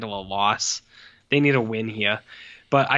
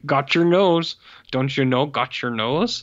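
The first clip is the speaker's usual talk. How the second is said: mocking bad child actor; 2 semitones higher, slower than usual. Mocking the daughter's line again, stilted. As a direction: parody a wooden child actor. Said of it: "the delivery of that stuff is so bad".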